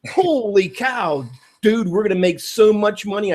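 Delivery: a touch of mock excitement, holy cow drawn out; excited call. Calling the friend Jason back, mildly hammed-up excitement. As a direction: gush to the friend on the phone. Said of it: "I'm gonna call you up and go".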